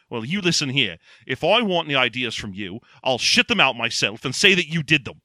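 lightly voiced scornful corporate villain; a hint of an imperious boss telling someone off; Michael Caine. Villain snubbing the commercial's director, lightly imitated scorn. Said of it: "So he goes in there".

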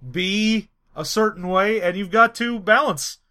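halting presidential impression; measured politician, long pauses and stretched words; Barack Obama. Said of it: "A M A of Barack Obama".

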